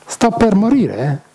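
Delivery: dying lament. Acted. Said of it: "Grossa sofferenza".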